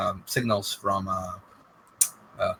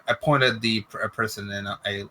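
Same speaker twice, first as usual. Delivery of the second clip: normal talking voice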